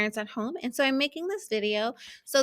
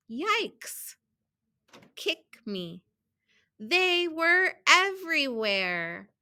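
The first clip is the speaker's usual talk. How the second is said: measured storybook reading with stressed key words; children's story read-aloud; slower than usual. A narrator's reading. Teacher reading a picture book to students, storybook read-aloud. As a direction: read it out carefully for young readers.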